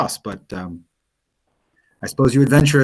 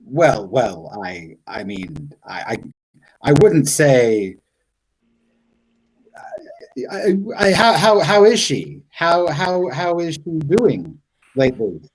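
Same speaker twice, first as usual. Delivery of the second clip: flustered stammer. Acted. Blacksmith stammering about the woman.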